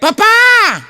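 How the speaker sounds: squeaky mock child calling dad. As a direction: call out like a small kid. Boy voiced calling father.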